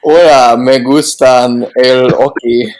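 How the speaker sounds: slow hammed-up Spanish phrase; mock Spanish. Host joking after being told Spanish came out, mock Spanish. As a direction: play up the Spanish slip. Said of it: "the Spanish is coming out".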